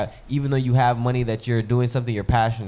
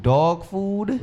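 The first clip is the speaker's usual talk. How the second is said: surprised; 7 semitones higher than usual. Retold or imitated. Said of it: "I'm like".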